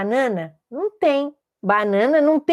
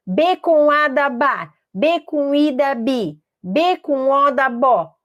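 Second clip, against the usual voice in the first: slow, measured syllable drill; drilled spelling formula; slower than usual. Shown as a demonstration. Teacher drilling letters into syllables, slow recital. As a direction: stretch out each letter and its result. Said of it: "quando você começa a dizer".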